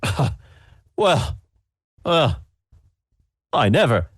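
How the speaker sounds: huffy judge. Acted. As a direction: sniff in affront. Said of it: "he's like".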